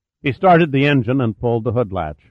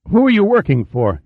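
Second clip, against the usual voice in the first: gasped in pain; 9 semitones higher than usual. A narrator's reading. Attendant at gunpoint gasping at Hagan in agony. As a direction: force the words out through sharp pain. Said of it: "he gasped".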